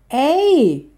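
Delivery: high, loud offended call; mock-outraged exclamation; indignant protest. A narrator's reading. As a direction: object sharply, pitch shooting up. Lioness protests at the dragon's teasing remark.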